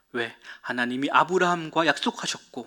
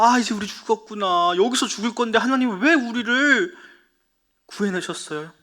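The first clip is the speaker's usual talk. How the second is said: higher, whiny grumbling at God; complaining Israelites; 5 semitones higher than usual. Acted. Teacher voicing frightened Israelites blaming God, higher whiny complaint. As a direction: act out the people moaning in despair. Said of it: "하면서 막 원망하고 있던 거예요".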